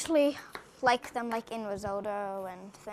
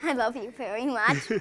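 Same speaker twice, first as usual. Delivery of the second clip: firmer, steadier retake, no giggling; with more conviction; 4 dB louder than usual. Real, not acted. Boy repeating to his parents, now with conviction. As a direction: say it like you mean it this time. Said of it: "with a little more, uh, conviction".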